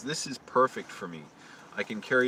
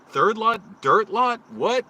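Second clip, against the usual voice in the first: baffled; 10 semitones higher, 8 dB louder, slower than usual. Retold or imitated. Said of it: "I was like".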